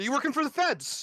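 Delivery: abrupt, loud, high-pitched shouted outburst. Acting out a scene, confronting a sketching partner right after whispering, loud outburst. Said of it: "And now I'm loud".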